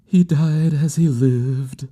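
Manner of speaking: high, slow and mournful; a high-pitched, drawn-out lament; grieving woman's voice. A narrator's reading. Bereaved woman speaking of his death, high and mournful. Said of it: "very low".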